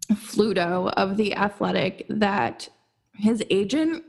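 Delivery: talking through a yawn. Real, not acted. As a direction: yawn while you speak. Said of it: "I don't know why I'm yawning".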